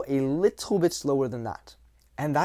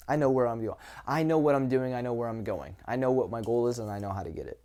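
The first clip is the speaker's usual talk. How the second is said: sure of himself; faster than usual. Shown as a demonstration. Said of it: "The masculine is sure of himself".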